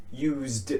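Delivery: "used" ending in a voiced d. Shown as a demonstration. Teacher adding D to use, voiced D ending. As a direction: finish "used" on a d sound. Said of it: "a D".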